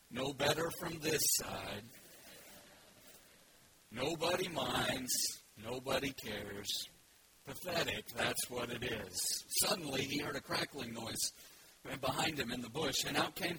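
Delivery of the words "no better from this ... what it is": very slow, low, gloomy donkey; slow Eeyore. Acted. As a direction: let every word sag with self-pity. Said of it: "you have to read it slowly".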